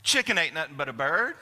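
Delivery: a big exuberant Southern mother comforting you; booming "Oh, honey" opener, then lightly voiced; Mama Carol's saying. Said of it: "Mother Carol would come up and go".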